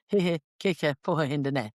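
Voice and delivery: put-on Carlow accent with dropped T's; flat Carlow accent. Showing how Carlow people talk, flat Carlow accent. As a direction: drop every T like a Carlow local. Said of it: "Flat Carlow accent".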